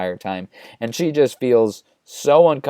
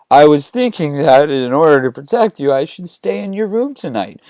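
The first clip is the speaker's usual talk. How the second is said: hammed-up creepy offer, pitched up; creepy intensity; 4 semitones higher, 4 dB louder than usual. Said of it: "creepy intensity".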